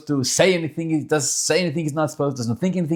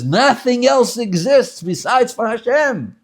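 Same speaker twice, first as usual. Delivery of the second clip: solemn slow proclamation; 9 semitones higher, 4 dB louder, slower than usual. Acted. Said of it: "Torah says".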